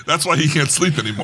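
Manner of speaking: can't hold back a laugh. Real, not acted. Joke, laugh heard.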